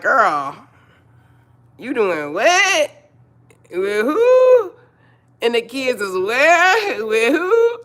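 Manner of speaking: high, loud mock disbelief, half laughing; incredulous girlfriend. Woman scolding a friend over a boyfriend, high mock disbelief. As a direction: ask it like you can't believe your ears. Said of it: "It's like".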